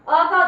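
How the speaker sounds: अ hit loud and firm; stress on अ. Shown as a demonstration. Teacher insisting to pupils, loud stress. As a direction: punch the sound अ. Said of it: "आवाज sound आप दोगे अ".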